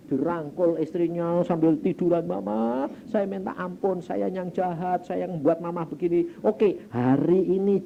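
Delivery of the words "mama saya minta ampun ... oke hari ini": acted remorseful plea. Retold husband begging wife's forgiveness.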